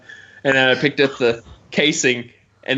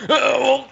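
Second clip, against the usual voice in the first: strained grunt. Retold or imitated. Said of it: "Or you start grunting".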